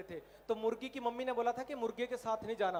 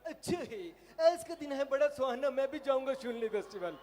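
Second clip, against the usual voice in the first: cartoon voice; 2 semitones higher than usual. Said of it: "वो कहते".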